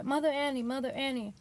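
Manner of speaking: lightly imitated Southern accent, calling a name. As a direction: greet her in a proper Southern lilt. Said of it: "I'm saying it in this sort of accent".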